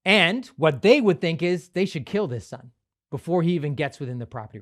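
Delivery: usual speaking voice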